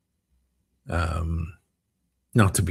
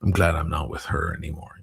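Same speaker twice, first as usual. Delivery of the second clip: bitter ex-talk; 3 semitones lower than usual. Retold or imitated. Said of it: "he keeps saying".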